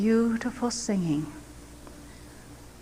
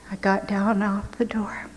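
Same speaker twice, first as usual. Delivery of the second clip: ordinary delivery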